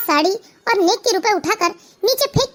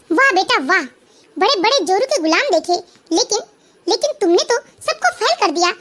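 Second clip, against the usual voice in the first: sarcastic scolding mother. Acted. Mother shames her lying son, sarcastic scolding.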